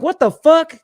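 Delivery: high, loud what the fuck; retold outraged yell. Supervisor outraged at the framer calling her a dude, loud yell. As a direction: bark it out in outrage. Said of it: "I was like".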